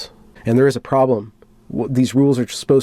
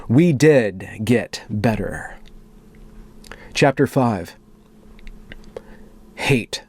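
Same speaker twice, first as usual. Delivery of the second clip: slow, solemn manifesto read; dramatic reading; slower than usual. Acted. Reading a moderator's manifesto to viewers, solemn and dramatic. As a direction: read it like a grave confession.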